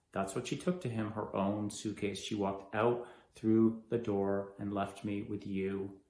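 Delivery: low, soft, measured recollection; subdued grief. Acted. Left behind, recalling words of love, subdued grief. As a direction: remember it quietly, with pauses. Acted grieving memory of being left.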